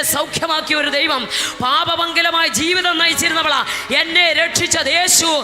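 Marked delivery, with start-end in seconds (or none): 1.6-5.4 loud, raised preacher's cry; fiery preaching. Acted. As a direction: preach it out to the congregation. Preaching rises again. (ആവേശത്തോടെ ഉച്ചത്തിലുള്ള പ്രസംഗം)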